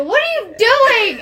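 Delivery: sudden loud high yelp; startled shout. Acted. Kai yells after the fleeing girl, startled shout. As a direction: shout it out of nowhere, alarmed. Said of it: "he manages to, like, go".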